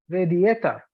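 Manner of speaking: radiator as reh-dee-EH-ter; "radiator" with a shortened middle vowel; variant pronunciation. Shown as a demonstration. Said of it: "Maybe some other people".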